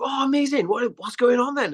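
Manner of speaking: high, lilting Welsh enthusiasm; Welsh accent. Retold or imitated. Pub local hears about filming, Welsh accent. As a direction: imitate an impressed Welsh local. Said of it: "that's a Welsh accent, by the way".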